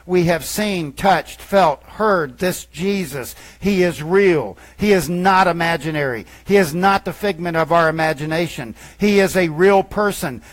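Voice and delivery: loud, emphatic eyewitness declaration; fervent testimony. Acted. Preacher voicing the apostles' testimony, loud and emphatic. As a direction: proclaim it like a witness who saw it.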